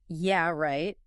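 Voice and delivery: mildly sarcastic disbelief. Shown as a demonstration. Teacher showing the special tone, mildly sarcastic. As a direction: say it as if you don't believe it. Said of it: "a sarcastic tone".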